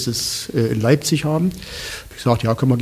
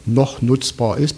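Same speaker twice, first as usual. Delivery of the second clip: "noch" set off by a pause and stressed, phrase slowed; pause, then lean deliberately on "noch"; slower than usual. Real, not acted. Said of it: "Betonung liegt auf noch".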